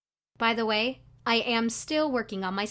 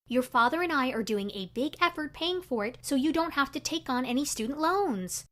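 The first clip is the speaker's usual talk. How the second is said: nagging, disappointed mom lecturing her daughter; scolding mother; 4 semitones higher than usual. Retold or imitated. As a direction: scold like an exasperated parent. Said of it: "I already knew what she'd tell me".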